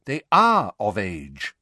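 slow, tired insistence; weary. A narrator's reading. Husband reminding wife about the twins, weary. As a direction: point it out slowly and wearily. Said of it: "in the same tired voice".

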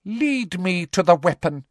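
high, commanding voice; imperious official; exultant command. A narrator's reading. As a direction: order it triumphantly. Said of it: "looking exultant".

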